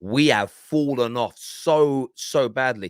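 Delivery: slow, heavy voicing of fans' realization; mock-solemn, drawn-out dismay; dawning realization. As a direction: voice their sinking realization slowly. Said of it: "there's almost, like, this realization now".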